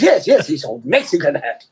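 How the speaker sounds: lightly imitated Chinese-accented shopkeeper. Shopkeeper who loves selling, agreeing in mock Chinese accent. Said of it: "doing my Chinese accent last week".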